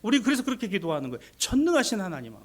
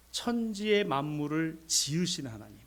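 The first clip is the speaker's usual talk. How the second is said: ordinary talk, nothing marked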